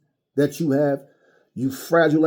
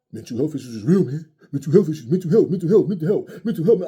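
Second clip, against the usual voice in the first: mocking; faster than usual. Mocking fighters' excuses.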